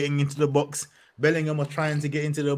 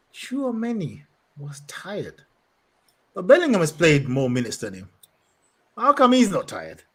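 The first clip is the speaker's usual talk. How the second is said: mock disbelief; 4 semitones higher than usual. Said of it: "I'm like".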